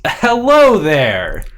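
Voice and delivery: slow, drawn-out hello; formal greeting. Acted. Ish greeting the dancing stranger after clearing his throat, slow formal greeting. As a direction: greet a stranger slowly and deliberately. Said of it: "Ish clears his throat and says".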